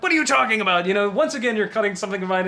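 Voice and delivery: high, loud indignant snap; jackass outburst. Retold or imitated. To Doug, who cut his flashback, a loud indignant outburst. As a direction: bristle at the editor like he's robbed you. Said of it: "a jackass moment where I'm like".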